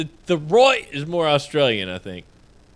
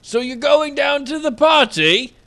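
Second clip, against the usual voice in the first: mock British uptalk; 5 semitones higher than usual. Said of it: "Going up at the end 'cause I'm British".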